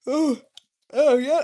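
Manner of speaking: sudden loud cry out, pitch jumping up; overwhelmed yelling out loud. Real, not acted. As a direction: let it burst out of you. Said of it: "I have to literally yell like that".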